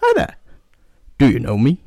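high falsetto woman voice; man doing a woman's voice. Acted. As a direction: squeak it up high like a lady. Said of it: "So, woman, again".

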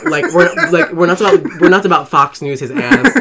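loud and fired up. Real, not acted. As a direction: ramp it up loudly.

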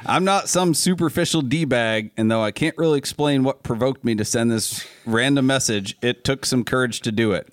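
put-on email read in a light Southern accent. Host reading a fan's email to friends, light Southern accent. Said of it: "reading this in a Southern accent".

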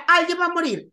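high, loud mock alarm of a frightened aunt. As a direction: cry it out like a superstitious aunt sure of doom. Aunts' panic retold as a quote.

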